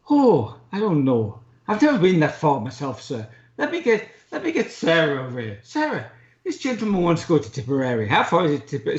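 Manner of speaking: put-on a light, clumsy Irish barmaid accent; bad Irish accent. Retelling the barmaid's answer to a traveller, in a bad Irish accent. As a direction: mimic the Irish barmaid in a self-admittedly poor Irish accent. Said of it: "sorry for my, uh, appalling accent".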